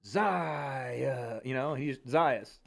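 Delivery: slow, weighty ring-announcer name call; announcer with gravitas. Shown as a demonstration. Streamer showing how the announcer should say it, slow weighty call. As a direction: give the name gravitas, drawn out. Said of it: "a little bit of gravitas".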